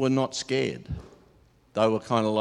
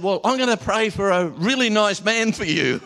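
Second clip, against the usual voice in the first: put-on higher, kindly old-lady promise; sweet old lady; 11 semitones higher, 4 dB louder than usual. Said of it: "She said".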